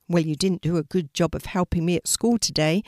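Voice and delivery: a touch of sarcasm, said quickly; lightly needling, brisk pace; a little sarcastic. Acted. Mariam needling her guardian angel about school, lightly sarcastic. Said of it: "a little sarcastically".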